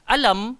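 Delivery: "Alam" recited with the m held short and clean; recited clearly. Shown as a demonstration. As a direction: say "Alam" with no nasal hum on the m. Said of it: "dengar baik-baik".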